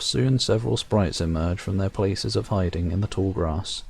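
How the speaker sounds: measured storyteller reading the game text; story narration. A narrator's reading. Reading the game's narration aloud to viewers, storyteller voice. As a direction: narrate it like a fairy tale.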